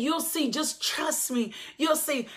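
soft, slowed voice of the Lord; God's quiet assurance. Retold or imitated. The Lord tells the husband to trust, quietly assuring. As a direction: gently ask for trust, lightly voicing God. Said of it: "He said".

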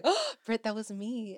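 high, bright-free excited exclaim; excited reveal. Retold or imitated. Fan telling Britt she made the shirt, high and excited. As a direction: blurt it out, thrilled. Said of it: "I was like".

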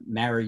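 "marry" with the a of "cat"; distinct vowel. Shown as a demonstration. Testing listeners' accents, "marry" with the cat vowel. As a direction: keep "marry" apart with a flat cat vowel. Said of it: "those words are pronounced differently".

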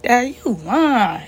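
slow, high-pitched retold denial; shocked disbelief. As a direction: drag it out in stunned disbelief. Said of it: "I was in shock".

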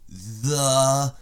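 building to a booming high yell; boxing announcer calling the fighter; ring announcer. Pretend.

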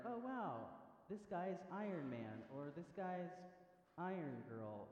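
mock awe, starting high; impressed moviegoer. Moviegoer reacting to superhero reveal, mock impressed. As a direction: act out a dawning realization, stretched out.

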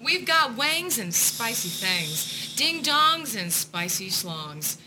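slow, punchy mock commercial read. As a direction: sell it like a cheesy radio ad.

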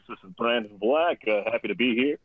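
low, smooth radio announcer; deep DJ intro. Pretend. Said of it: "I thought I'd hit you with the radio voice".

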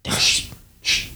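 hushed, slow whisper. Retold or imitated. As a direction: whisper it slowly. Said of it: "he went".

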